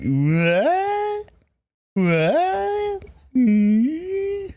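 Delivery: high shocked what; surprised. Retold or imitated. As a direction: squeal it out in delight. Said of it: "you'd be like".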